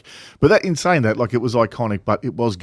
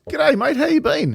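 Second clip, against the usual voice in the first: much higher, chirpy matey greeting; stranger's greeting; slower than usual. Retold or imitated. Bloke at the bar greeting him, much higher, chirpy. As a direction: pitch it way up like a friendly stranger. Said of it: "sees me and says".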